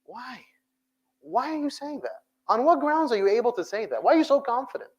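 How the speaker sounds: high, challenging questions; high incredulous questioning of doubters; incredulous why. Real, not acted. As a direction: push back, genuinely puzzled. Preacher challenging doubting youth.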